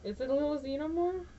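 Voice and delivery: cooing. Real, not acted. Cute tiny pin.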